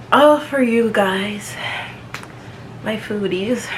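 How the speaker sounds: slow, fond address; drawn out and affectionate; warm. Real, not acted. Fond sign-off to fans.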